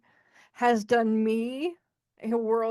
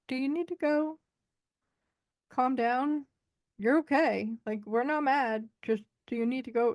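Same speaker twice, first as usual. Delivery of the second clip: reassuring friend; 3 semitones higher than usual. Retold or imitated. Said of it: "she was just kinda going".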